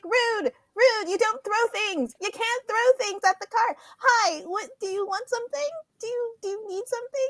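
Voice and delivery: scolding from window. Acted. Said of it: "open the window and be like".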